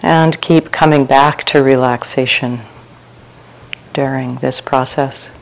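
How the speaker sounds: unhurried meditation guidance with long pauses; guided meditation. Real, not acted. Teacher leading retreat sitters through open awareness, calm guided meditation. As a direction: guide listeners gently into relaxation, phrase by phrase.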